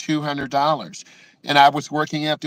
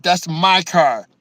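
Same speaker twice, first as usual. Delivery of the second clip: nice voice; 3 dB louder, slower than usual. Retold or imitated. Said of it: "in a nice voice".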